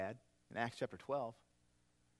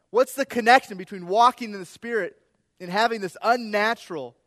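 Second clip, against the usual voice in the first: loud, rising preacher's climax; preaching at full force; 7 semitones higher, 15 dB louder than usual. Acted. Pastor pressing his congregation, building to a loud preaching peak. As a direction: drive the question home to the congregation.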